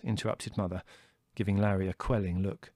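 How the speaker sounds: ordinary delivery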